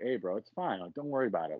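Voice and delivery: mild, easygoing reassurance; calm. Retold or imitated. Gym member reassuring an angry guy, calm. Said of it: "I was really calm".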